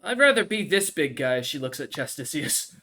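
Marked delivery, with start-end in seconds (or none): 0.0-1.4 noble lady voice. Acted. GM voices Flare.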